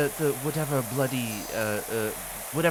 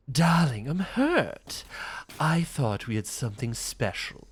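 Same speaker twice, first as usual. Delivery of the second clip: lower, purring vampire dandy; a lightly voiced fake Astarion; 4 semitones lower, 3 dB quieter than usual. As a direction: tease like a wounded aristocratic vampire. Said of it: "do my fake Astarion".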